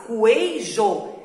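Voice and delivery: coeijo said with the U voiced, kweijo; wrong pronunciation. Shown as a demonstration. Teacher showing pupils the wrong way, U voiced. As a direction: say coeijo with the U sounded. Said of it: "o Q U já não seria dígrafo".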